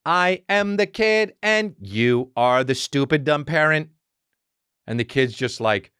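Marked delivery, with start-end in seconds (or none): 0.1-3.9 slow, high, drawn-out mocking voice; mocking kids' show. Dad parodies a toddler show, mocking singsong narration. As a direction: send up a creepy children's cartoon. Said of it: "it's always like fucking".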